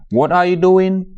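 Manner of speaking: high questioning voice of a passerby; asking someone. Retold or imitated. Friend catching you on the phone, asking. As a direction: ask it like a curious friend. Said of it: "mu ne la looy def".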